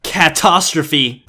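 slow "catastrophe" with the cat pun pointed up. Pretend. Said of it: "I made that joke".

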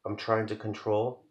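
earnest spoken-word poem delivery; poem reading. Acted. Poet reading her anxiety poem to viewers, earnest. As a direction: perform the poem with mounting tension. Reads own poem aloud.

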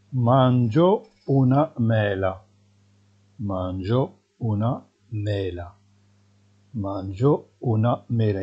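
very slow, clear Italian model sentence; spelled out for learners; deliberate dictation pace; slow teaching model. Shown as a demonstration. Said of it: "teacher models slowly".

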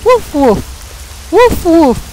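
mock woofs spelt out as words; pretend dog bark. Gamer playing the dog, mock barking. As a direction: play at being a dog. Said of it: "I'm the dog".

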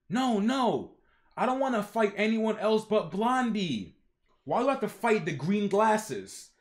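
whiny demands building to a shout of Blondie; childish tantrum, rising to a cry; mock temper tantrum. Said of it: "a temper tantrum".

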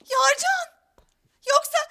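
hammed-up tearful outcry; crying out. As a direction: wail his name in betrayed shock. Accusing fiancé, crying out.

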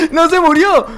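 high laughing cry of no se murió; laughing disbelief. Real, not acted. Laughing at the failed trap. (riendo sin poder creerlo)

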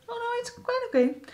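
fighting back tears on the words; choked up. Real, not acted. Vlogger to viewers, still shaken by the news, tearful. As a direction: voice catching as she pushes through. Emotional after news of death.

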